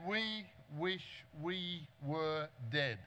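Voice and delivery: slow, soft, self-pitying whine; mock whining. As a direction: drag it out like a whinger. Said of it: "They just whinged".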